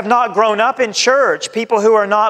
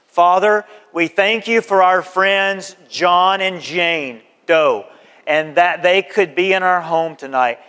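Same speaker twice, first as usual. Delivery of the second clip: sample prayer. Shown as a demonstration. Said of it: "You're gonna say something like this".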